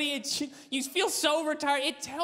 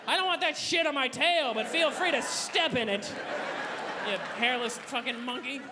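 snooty horse. Acted. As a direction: talk down to people.

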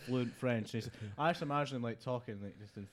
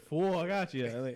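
very drawn-out, higher mock Italian; Italian accent; 4 semitones higher, 3 dB louder, much slower than usual. English diner showing off the dish's name, hammed-up Italian accent. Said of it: "in with an Italian accent".

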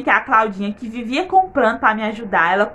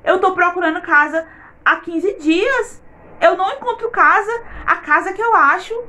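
retold tearful prayer; 6 semitones higher than usual. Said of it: "Aí eu chorei, porque eu disse".

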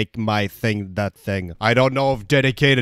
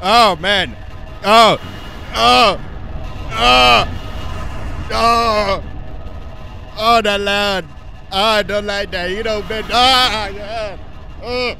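scared yelps; 8 semitones higher, slower than usual. Real, not acted. Frightened reactions during game.

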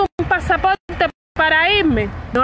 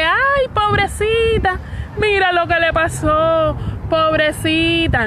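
mock pity; 3 semitones higher, slower than usual. Mocking the pity speech aimed at her, slow and sing-song. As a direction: sneer at the poor-little-me story, drawn out. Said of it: "el discurso de".

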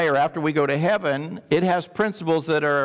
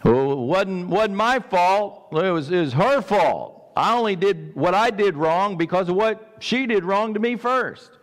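mock blame-shifting excuse; 2 semitones higher than usual. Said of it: "we blame everybody".

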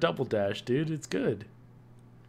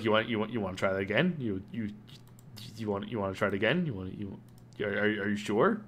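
slightly lowered, quick mock questioning; silly lowered voice; 6 dB quieter, faster than usual. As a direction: lightly put on a silly, doubting voice. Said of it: "what's that voice".

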